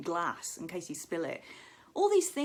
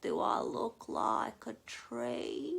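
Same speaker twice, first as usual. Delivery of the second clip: slow Australian; 5 semitones higher, much slower than usual. Retold or imitated. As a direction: drag out each word like Rachel. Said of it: "talk so slowly".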